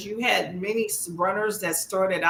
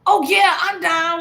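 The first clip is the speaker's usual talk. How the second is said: imitating commentators in African American English, trying to sound hard; high, loud mock African American English; african american accent; 8 semitones higher, 6 dB louder than usual. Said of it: "talking in A A V E".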